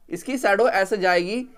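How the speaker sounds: teacher dictating slowly so the class can note it down; slow dictation. Shown as a demonstration. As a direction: spell it out slowly for students, leaning on शैडो. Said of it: "repeats line for the class".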